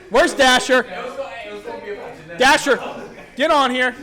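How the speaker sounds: loud call across the room. Real, not acted. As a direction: call his name to bring him over. Calling a player to the mic.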